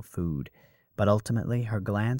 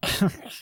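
rude scoffing noise; 12 semitones higher than usual. Acted. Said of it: "Calidora made a rude noise".

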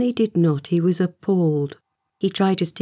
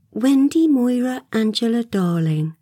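higher, self-pleased full name; satisfied; 5 semitones higher than usual. A narrator's reading. Wendy gives her full name to Peter, satisfied. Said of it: "replied with some satisfaction".

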